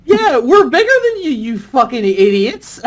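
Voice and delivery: high, loud jeering voice, slowing at the end; America gloating at England; mock taunt. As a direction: jeer it like a cocky brat.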